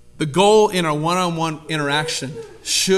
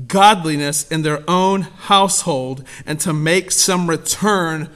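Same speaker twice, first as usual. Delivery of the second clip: slow, weighty, louder Bible reading; scripture reading; 5 dB louder, slower than usual. Acted. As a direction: read each phrase slowly with gravity. Reads scripture solemnly.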